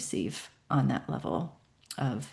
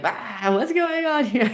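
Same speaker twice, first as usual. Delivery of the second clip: mock puzzled ah; 7 semitones higher, 3 dB louder than usual. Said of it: "and like".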